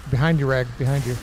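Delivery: loud urgent warning; calling out warning. Real, not acted. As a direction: shout a quick heads-up. Warning teammate in game.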